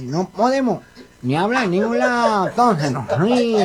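nasal cleft-palate speech; mock nasal speech impediment; gangoso. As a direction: talk through the nose with blurred consonants. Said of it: "vos sos un gangoso igual que yo".

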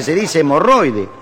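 slow, careful correction; prissy daughter. Acted. Affected daughter correcting her father's crude word, prissy correction. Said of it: "tenía una hija petitera".

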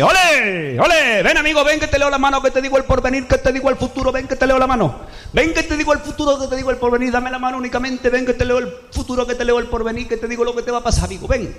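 high sing-song Spanish gypsy patter. Acted. Gypsy woman luring a passer-by to read his palm, high Spanish lilt. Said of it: "se me apareció una gitana".

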